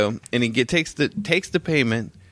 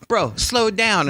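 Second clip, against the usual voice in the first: slow, high plea to slow down; drawn-out plea; 11 semitones higher, much slower than usual. Retold or imitated. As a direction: stretch each word like you're calming him. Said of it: "I was all".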